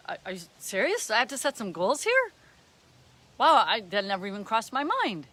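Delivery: quick, incredulous question into mild astonishment; mock surprise. Playing someone who never thought of setting goals, mock surprised. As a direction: play someone baffled at the idea.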